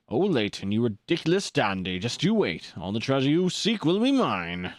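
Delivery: lightly voiced token villain; villain voice trial. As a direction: try out an understated villain taunt. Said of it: "what voice do I give to him?".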